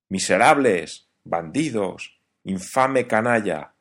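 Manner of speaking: sailor's slow, loud curses at the bandits who sank his boat; angry outburst. Acted. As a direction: rage at the men who wrecked his boat, slowly. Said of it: "exclamó el marino".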